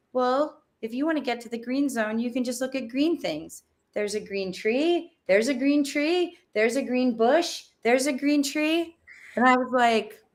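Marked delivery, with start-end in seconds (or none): 0.1-9.0 put-on child's voice. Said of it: "the five-year-old said".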